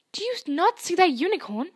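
high, loud indignant roar; bellowing. A narrator's reading. Firenze rearing up and shouting at Bane, angry bellow. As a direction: bellow it at him in fury. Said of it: "Friends bellowed at Bane".

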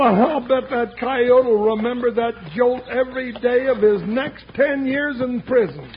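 ordinary delivery

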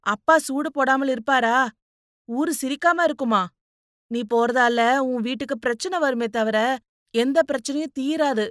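firm sisterly persuasion; reasoning young woman. Acted. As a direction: press the point with insistent questions.

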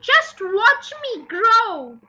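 slow, high, loud brag; boastful shout. A narrator's reading. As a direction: stretch it out in triumph. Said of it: "she shouted".

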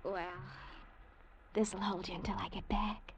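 soft intimate whisper. Acted. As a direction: breathe it close and low. Intimate goodbye before a kiss.

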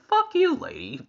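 loud, high comic retort; mock defiance. Viewer playing the house talking back to Marge, loud mock defiance. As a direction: fire it back loudly, half laughing. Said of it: "If I was us, I'd be like".

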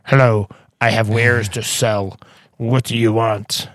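slow, odd merchant NPC voice; shopkeeper voice. Acted. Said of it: "shopkeeper twenty-five".

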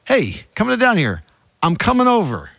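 breezy, high self-invite; presumptuous Jesus. Retold or imitated. Pastor voicing Jesus inviting himself over, breezy and high. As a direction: invite yourself over cheerfully. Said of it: "he's rather presumptuous".

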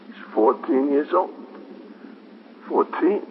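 broken, halting, barely voiced grief; a father falling apart as it sinks in; stunned grief. Father learns his son died.

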